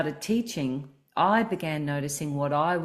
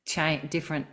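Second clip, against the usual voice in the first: throaty speaking voice. Shown as a demonstration. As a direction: let the voice sink down into your throat. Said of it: "my voice is landing in my throat now".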